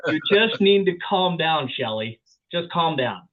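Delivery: hammed-up patronizing calm down, dragged out; mock condescending. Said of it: "Don't tell somebody".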